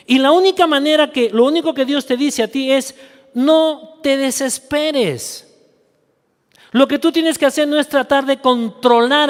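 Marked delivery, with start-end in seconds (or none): 3.3-5.6 very slow, gentle words from God; tender reassurance. Shown as a demonstration. Preacher giving God's word to the worried, slow and soothing. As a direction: stretch it out calmly, soothing.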